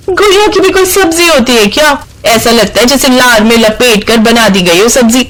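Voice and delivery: mock the other dish openly.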